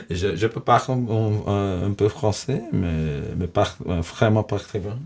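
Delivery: halting American accent in French; hesitant French with American accent; foreign accent in French. Real, not acted. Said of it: "my French fucking stinks".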